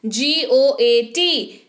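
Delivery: slow, letter by letter spelling; each letter of पी एल ए आई एन said slowly and separately. Shown as a demonstration. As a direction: spell it out like on a board. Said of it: "spelling the word out".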